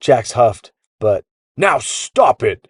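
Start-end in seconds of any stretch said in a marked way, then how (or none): 1.6-2.7 slow, booming roar. A narrator's reading. Gear echoes the boy's demand, roaring. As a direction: drag it out in a big voice.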